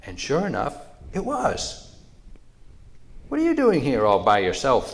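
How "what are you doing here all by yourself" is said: loud, pitched-up start falling away; surprised question. A narrator's reading. Raccoon finding little mouse alone, surprised question.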